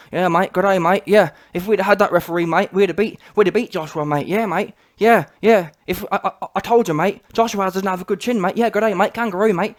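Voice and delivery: lightly mocked Aussie-style accent; a hint of hammed-up Antipodean "mate" talk; Joseph Parker. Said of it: "Joseph Parker".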